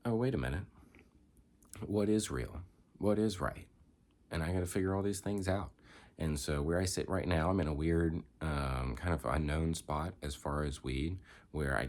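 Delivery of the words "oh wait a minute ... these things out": put-on higher-pitched questioning of old beliefs; acted-out second thoughts; dawning doubt. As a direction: voice a younger self starting to question. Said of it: "you start to grow up a bit, and you're like".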